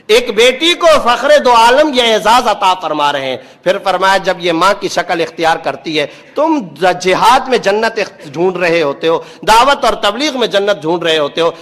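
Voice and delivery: forceful, declamatory sermon delivery; preaching. Real, not acted. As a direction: preach it with rolling, emphatic conviction. Preaches to a congregation. (پُرجوش خطیبانہ انداز)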